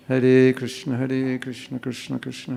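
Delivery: earnest chant that fades gently; devoted heartfelt chanting; sincere prayer. Shown as a demonstration. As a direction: pray it as if you mean every word. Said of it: "if you ever chant like this and you're actually praying".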